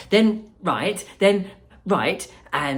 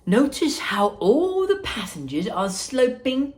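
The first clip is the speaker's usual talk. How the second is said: higher, louder call back to the group; 9 semitones higher, 3 dB louder than usual. Acted. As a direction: shout over your shoulder. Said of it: "called out Wonka".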